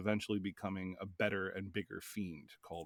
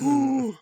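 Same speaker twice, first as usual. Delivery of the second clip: mock wince; 11 dB louder than usual. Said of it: "I was like".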